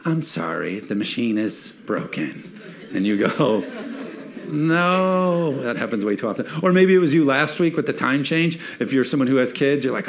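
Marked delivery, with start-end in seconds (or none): 0.0-2.5 lower, softer, a bit slow and apologetic; lightly voiced fast-food clerk breaking bad news; mock employee. 4.5-5.6 high, drawn-out groan of a no; mock despair. Despair at broken machine.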